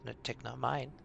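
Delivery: a scared small creature fumbling for words; nervous goblin. Acted. GM voices goblin Tick.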